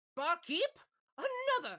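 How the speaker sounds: very high, loud, swooping call-out. Voicing a sister calling to the bartender: sister calling to the bartender. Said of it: "you recognize this voice immediately".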